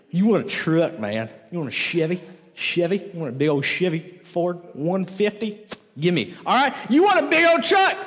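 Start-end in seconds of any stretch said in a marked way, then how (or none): 0.1-6.3 lightly put-on Troy accent. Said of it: "this is just my Troy accent". 6.9-8.0 put-on high, loud Troy accent. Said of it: "this is just my Troy accent".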